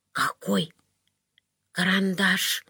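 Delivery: drained, breathless whisper; weak whisper. A narrator's reading. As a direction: whisper it as if all strength is gone. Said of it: "прошептала обессилевшая Варвара Лаптева".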